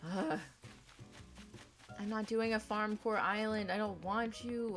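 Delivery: ordinary delivery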